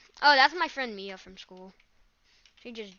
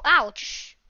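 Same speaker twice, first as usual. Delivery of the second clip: sharp ouch; 2 semitones higher, 4 dB louder than usual. Real, not acted. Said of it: "I accidentally just punched my desk".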